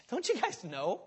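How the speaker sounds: casual, offhand question with a laugh; nonchalant. Retold or imitated. Paul casually reminding believers, offhand and amused. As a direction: toss it off like it's obvious. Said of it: "He's saying it so nonchalantly".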